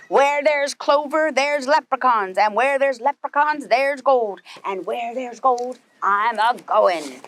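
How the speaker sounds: gruff hammed-up pirate, drawn out at the end; lightly voiced pirate captain, slowing on the last words. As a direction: growl it like a greedy sea captain. Pete's refrain.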